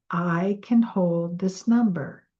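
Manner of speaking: slow, calm repetition; repeated affirmation. Shown as a demonstration. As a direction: echo it back slowly. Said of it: "So repeat".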